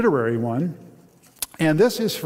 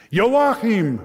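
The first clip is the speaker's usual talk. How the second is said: roaring; 7 semitones higher, 4 dB louder than usual. Acted. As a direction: roar the name at the door. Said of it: "Joseph roared".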